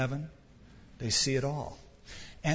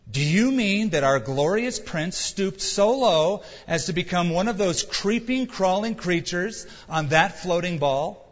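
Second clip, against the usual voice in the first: slow, higher, louder incredulous question; stunned disbelief; 3 semitones higher, 3 dB louder than usual. Acted. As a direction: ask it in disbelief, slowly. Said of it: "He listened in stunned disbelief".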